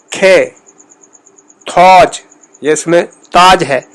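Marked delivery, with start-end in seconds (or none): 1.7-2.2 تھوج with an aspirated t and rounded o; تھوج, Iranian-style aspirated t; Persian pronunciation. Shown as a demonstration. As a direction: breathe on the t of تھوج, round the vowel. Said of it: "ایسے بولا جائے گا جیسے تھوج".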